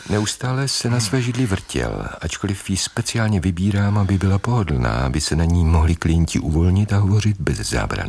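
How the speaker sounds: even, calm narrator's voice; story narration. A narrator's reading. Psychologist narrating his patient's restless visit, calm.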